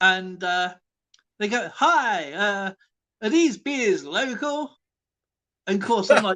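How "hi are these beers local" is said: clumsy fake American accent, drawn out. Imitating an american tourist asking a barman: bad american accent. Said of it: "your American accent sucks".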